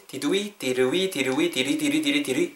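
"did we" repeated until the sounds blend; "did we" running together as one word; linked "did we". Shown as a demonstration. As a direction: drill "did we" into a run-together "diriwi". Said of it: "이렇게 음이 연결되거든요".

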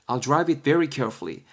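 very slow English with careful stress; slow example read. Shown as a demonstration. Teacher reading A's English line to students, slow and careful. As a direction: read it slowly so learners can follow. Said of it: "A가 말하고 있죠".

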